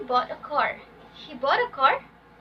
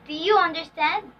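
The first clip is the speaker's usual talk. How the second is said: yes-no question tune, "understand" raised at the end; rising intonation; 6 dB louder than usual. Shown as a demonstration. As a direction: pitch lifting at the end of "understand".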